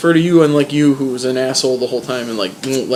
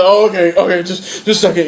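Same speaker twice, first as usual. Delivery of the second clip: slightly higher flustered stalling; flustered Sam; 4 semitones higher than usual. Retold or imitated. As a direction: hurry the words, caught off guard. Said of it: "he's like".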